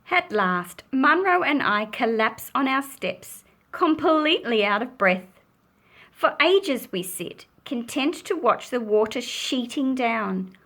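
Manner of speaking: gentle storybook reading; reading to children. A narrator's reading. Teacher reading the rain story to children. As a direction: read it like a picture book to a class. Reading a picture book aloud.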